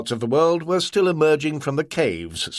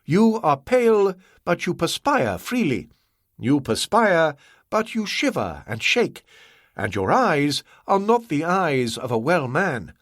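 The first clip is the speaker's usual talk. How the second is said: a higher, watchful merchant voice; Ah Wong, scrutinizing; 5 semitones higher than usual. Acted. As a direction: lay out the symptoms coolly. Ah Wong's voiced lines.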